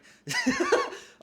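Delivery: high, loud burst of laughter; loud, helpless high-pitched laughing; emotional laugh. Real, not acted. Laughing while admitting crying.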